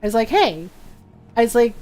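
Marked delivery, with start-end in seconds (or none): 0.3-0.7 lightly voiced stern mom; a hint of mom telling someone off. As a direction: retell it like a scolding mother. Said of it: "I got the mom voice".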